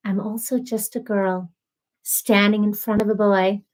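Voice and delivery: measured, lightly acted romantic film line; hesitant attempt at a movie heroine's line; movie quote voice. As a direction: recite it slightly low, phrase by phrase. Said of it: "I don't know what that voice is".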